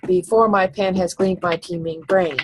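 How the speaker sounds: syllables marked off evenly; counting syllables. Shown as a demonstration. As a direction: tick off each beat. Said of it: "I just use my fingers".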